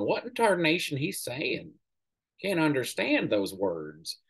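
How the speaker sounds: slow, sneering Southern drawl; mocking Southern drawl. Mocking old Southern congressmen in a slow Southern drawl. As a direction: ape an old Southern congressman, dragging it out slowly. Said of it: "in their stupid drawl".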